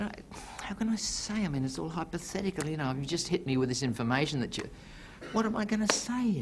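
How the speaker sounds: a hint of panic; flustered husband. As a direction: stall for time. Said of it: "He said".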